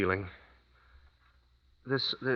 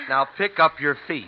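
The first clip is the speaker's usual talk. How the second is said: calling out; 5 semitones higher, 7 dB louder than usual. Acted. Calling directions in the snowstorm.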